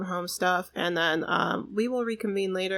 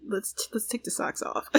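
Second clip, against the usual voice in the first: whispered, softer aside; 6 dB quieter than usual. Real, not acted. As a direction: whisper it like a secret.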